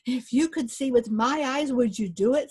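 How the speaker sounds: a hint of a tiny fairy man; little voice. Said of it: "said the little fairy".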